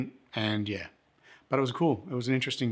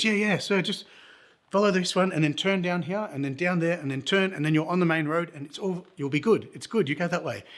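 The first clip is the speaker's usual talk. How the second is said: higher-pitched imitation of a local giving directions; helpful local man; 6 semitones higher than usual. Local guides the lost visitor to the main road, high helpful voice. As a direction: play the obliging stranger, pitched up and reassuring.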